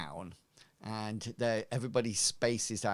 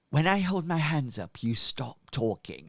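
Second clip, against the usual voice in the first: higher, faster command that trails into calm; stern leader; 4 semitones higher, 4 dB louder than usual. Acted. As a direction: silence the chatter with a sharp rebuke. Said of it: "He says".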